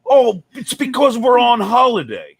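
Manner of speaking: breezy made-up British excuse; lightly hammed British accent; mock British excuse. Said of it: "I go".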